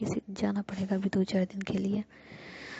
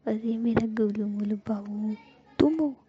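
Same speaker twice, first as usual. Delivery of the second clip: delighted cooing. Acted. Jiya coos at Ruhi.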